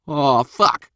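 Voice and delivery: drawn-out, high, loud disbelief; amazed exclamation. A narrator's reading. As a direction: gawp out loud at the sight. Bullet amazed by bound man.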